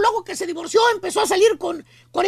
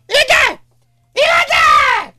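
louder, higher exclaim; loud emphatic "¡Fíjate!"; 6 semitones higher, 6 dB louder, much slower than usual. Acted. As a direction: call it out to the room.

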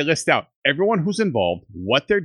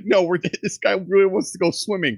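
high, put-on voice, a bit louder; mock tourist voice; 5 semitones higher, 4 dB louder than usual. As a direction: play a pushy tourist. Mock tour request voice.

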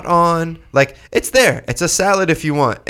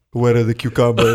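put-on Greek accent; 5 semitones lower than usual. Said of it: "your Greek accent was just your Lebanese dad".

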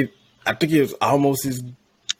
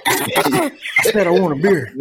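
high, slow wrestler growl; Stone Cold voice; 8 semitones higher, 4 dB louder than usual. Acted. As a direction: bark it like a wrestling heel. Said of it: "went straight Stone Cold".

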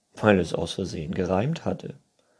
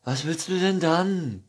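higher, puzzled group voice; helpless unicorn crowd; baffled chorus; 10 semitones higher, 5 dB louder than usual. A narrator's reading. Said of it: "fragten sie ratlos im Chor". (ratlos im Chor)

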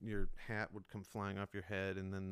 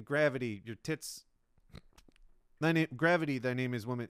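Lincoln doing stand-up; 5 dB louder than usual. Retold or imitated. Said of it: "He's saying".

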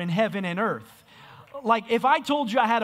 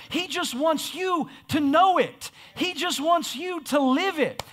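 building preaching shout; 3 semitones higher than usual. Real, not acted.

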